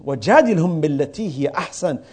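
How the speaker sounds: quick chanted Arabic recitation; quranic recitation. Acted. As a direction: recite the verse rapidly in Arabic. Quoting Quran verse in Arabic.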